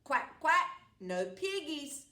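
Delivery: duck voice with a quack. Acted. Duck quacking its answer to the witch. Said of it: "quacked the duck".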